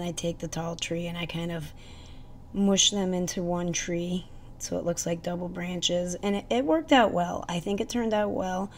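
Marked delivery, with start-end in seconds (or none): 6.2-8.7 pleased. Real, not acted. Pleased with result.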